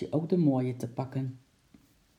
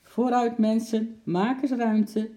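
loud, high and slow call to the crowd; 7 semitones higher, 4 dB louder, slower than usual. Acted. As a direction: drag it out as the umpteenth shout. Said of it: "riep de agent voor de zoveelste keer".

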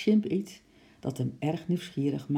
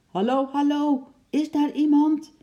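high, loud shout for help; loud calling out; 11 semitones higher, 8 dB louder than usual. A narrator's reading. Trapped father calls through the locked door, shouting loudly. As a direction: call out hard for anyone who might hear. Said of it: "riep hij hard".

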